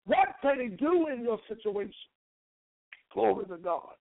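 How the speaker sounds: rising, fervent preacher cadence; preaching. Acted. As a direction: build the preaching up. Preaching building to full force.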